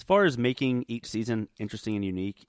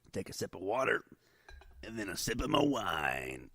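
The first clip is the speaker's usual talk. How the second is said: imitating Brandon; 2 semitones lower, 10 dB quieter than usual. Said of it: "I'm talking like Brandon right now".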